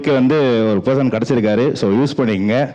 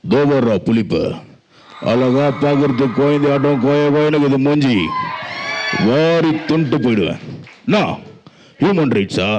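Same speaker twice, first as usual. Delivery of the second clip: villain voice. Acted. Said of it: "villain character".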